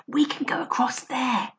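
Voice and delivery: soft breathy whisper. Acted. Barney urging Lou to escape, whisper. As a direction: whisper the plan. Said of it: "he whispered".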